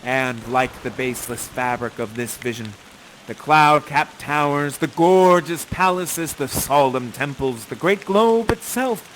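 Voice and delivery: slow, measured Shakespeare speech; grave, rolling verse; solemn verse recital. Acted. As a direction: deliver Prospero's farewell like a closing blessing. Closing Prospero speech.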